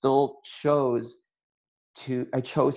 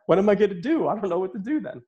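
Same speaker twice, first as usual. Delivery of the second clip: high-pitched, mock-flustered pleading; retold panic; 9 semitones higher, faster than usual. A healer retelling his panic to Dane, flustered. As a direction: act out being thrown and at a loss.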